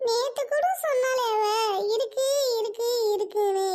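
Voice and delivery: tearful lament, voice catching on a sob; mock-tragic crying. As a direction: start weeping as you tell it. Mourning a neighbour's loss.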